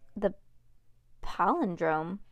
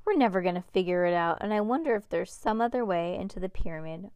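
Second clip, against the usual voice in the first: groaning; faster than usual. Acted. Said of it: "Cass groaned".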